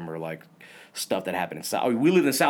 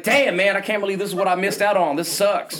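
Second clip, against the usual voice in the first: mock disappointed grumble; 9 semitones higher, 4 dB louder than usual. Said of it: "I was like".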